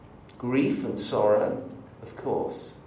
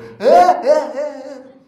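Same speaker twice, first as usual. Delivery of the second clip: mock wail; 13 dB louder than usual. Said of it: "bursts into tears".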